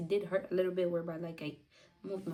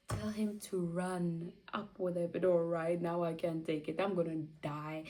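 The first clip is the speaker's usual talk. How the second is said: mild retold desperation; desperate plea. Begging staff to rush the doctor, mildly desperate. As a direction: plead like in labour pain. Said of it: "that's how I was talking".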